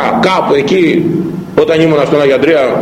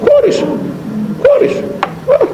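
much higher, mocking shrug of "χώρισε"; mocking modern mother. Priest mocking a mother who shrugs off divorce, much higher and mocking.

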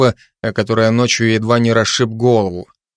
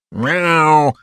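insistent meow; 5 semitones higher than usual. Acted. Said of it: "настойчиво произнёс Мьёль".

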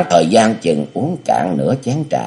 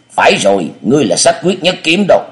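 put-on much higher, louder cunning old master; scheming elder; 10 semitones higher, 3 dB louder than usual. Địa Linh feeds the amnesiac hero a false name, high and sly. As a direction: coax the name into him, high and insistent.

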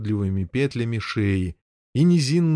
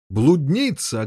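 barked insult; 3 semitones higher, slower than usual. Acted. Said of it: "гаркнул рыцарь".

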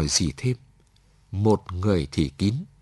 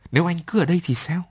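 urgent plea; 9 semitones higher, 5 dB louder, much faster than usual. A narrator's reading. Man pleading against her order.

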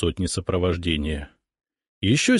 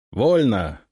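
repeated command; 2 semitones higher than usual. Acted. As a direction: pass the order on down the line. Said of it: "дублирую я".

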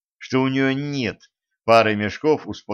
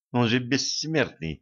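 frightened; 2 semitones higher, 4 dB quieter than usual. Acted. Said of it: "испугалась Женька".

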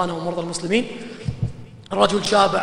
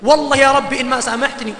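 earnest colloquial prayer; 4 dB louder than usual. Shown as a demonstration. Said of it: "قلها بالعامي".

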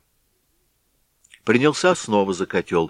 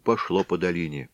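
plain reading voice

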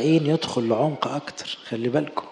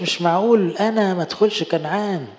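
raised pitch, mock disbelief; imitated whining protest; 5 semitones higher than usual. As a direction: protest as if unfairly shut out, acted. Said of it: "ما قعدش يعيط، ما قالوش". (تقليد احتجاج واستنكار)

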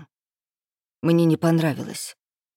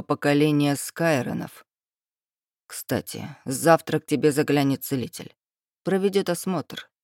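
haughty lord; 2 semitones lower than usual. Acted. Dragon lord's lines.

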